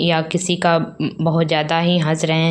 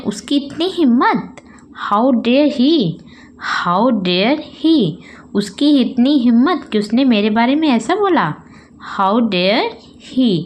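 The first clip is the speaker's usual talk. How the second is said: raised pitch, offended demo; mild indignation; 4 semitones higher than usual. Shown as a demonstration. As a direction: show mild outrage. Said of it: "तो हम क्या कहते हैं". (हल्का गुस्सा)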